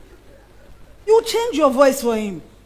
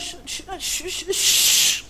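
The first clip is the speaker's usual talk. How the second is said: shushing; 6 semitones higher, slower than usual. Acted. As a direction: hush yourself, breathy and fading. Shushing herself mid-quote.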